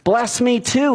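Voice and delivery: begging, pitch rising into a mock cry; retold bitter cry. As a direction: plead as if acting out a bitter cry. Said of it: "he let out a loud and bitter cry".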